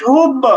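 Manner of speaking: "হুব" with a light, e-tinged b echo; qalqalah toward zer. Shown as a demonstration. Teacher shows ba leaning toward zer, light qalqalah. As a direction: bounce the b of "হুব" slightly downward. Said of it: "যাবে কিছুটা জেরের দিকে".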